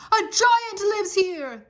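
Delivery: slow, high, hushed whisper of fear; terrified whisper. A narrator's reading. Sailors to each other in the giant's cave, terrified whisper. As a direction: breathe it out in terror, slow and high. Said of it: "Odysseus's men were terrified".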